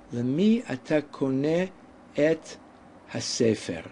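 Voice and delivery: slow model. Shown as a demonstration. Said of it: "Say it for yourself again".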